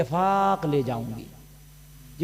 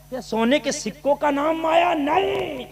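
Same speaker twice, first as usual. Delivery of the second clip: raised pitch, volume still held back; restrained rhetorical question; 7 semitones higher than usual. Real, not acted. Preacher asking the crowd what wealth is, restrained high delivery. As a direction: lift it high but hold back the power. First take, before shouted repeat.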